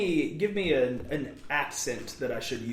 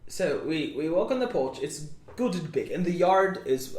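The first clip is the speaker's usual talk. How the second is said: put-on British accent; 2 semitones higher than usual. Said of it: "I'm not British anymore".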